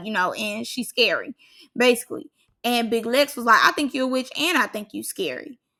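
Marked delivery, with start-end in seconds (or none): none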